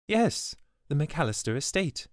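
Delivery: a nervous former housekeeper explaining herself; the old servant pleading her case; anxious older servant. A narrator's reading. Swidona answers Tanner.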